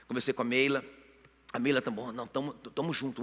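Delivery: ordinary delivery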